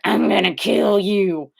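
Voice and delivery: put-on slow, menacing kid voice; creepy kid threat. A kid at the photo studio threatens the photographer, slow and menacing. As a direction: drag out a creepy little threat. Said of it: "This kid was like".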